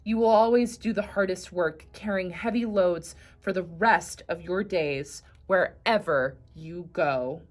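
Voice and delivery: loud, stern pronouncement; furious God. Acted. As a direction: condemn the donkey with force. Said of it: "God was furious".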